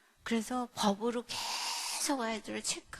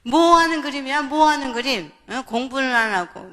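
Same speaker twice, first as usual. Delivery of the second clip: loud accusing questions, pitched up; acted scolding; 3 semitones higher, 16 dB louder than usual. Mother scolds child for not studying, loud and accusing.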